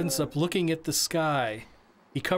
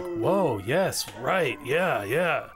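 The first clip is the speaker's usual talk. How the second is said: impressed audience reaction; much slower than usual. Retold or imitated. Audience members reacting to the show with excited approval. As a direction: act out the delighted crowd agreeing. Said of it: "'Cause people would be like".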